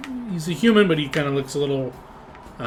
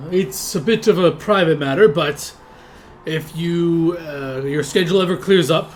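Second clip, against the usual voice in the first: half-orc stranger; 4 semitones higher, 6 dB louder than usual. Acted. NPC voice, hushed meaning.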